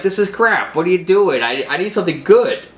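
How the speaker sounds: high, exasperated boss voice; annoyed editor Perry. Retold or imitated. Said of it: "He's like".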